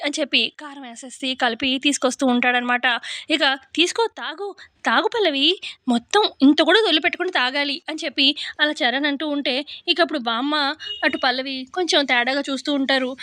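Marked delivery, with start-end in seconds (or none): 3.8-7.8 lightly acted coaxing, pitch lifted; mock affectionate. Husband urging wife to drink it all, mock affectionate. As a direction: coax with put-on affection. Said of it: "ప్రేమగా మాట్లాడుతున్నావేంటో".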